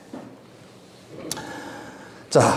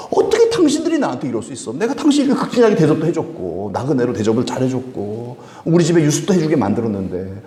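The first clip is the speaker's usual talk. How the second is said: indignant protest; 5 semitones higher than usual. Retold or imitated. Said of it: "하면서 막 따진 거예요".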